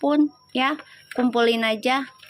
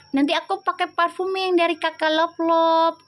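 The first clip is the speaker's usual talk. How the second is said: imitating daughter; 5 semitones higher than usual. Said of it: "kata dia gitu".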